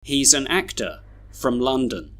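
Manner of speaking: "an" and "from" weakened, "London" as LUN-dun; schwa weak forms. Shown as a demonstration. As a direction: model reading with "actor" ending in uh. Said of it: "read all these sentences with their schwas".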